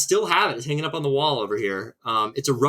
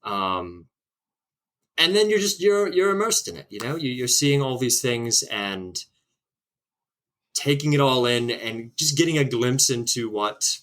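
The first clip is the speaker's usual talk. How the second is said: put-on posh British accent. Guest put on the spot to answer history question, posh British accent. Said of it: "in a British accent".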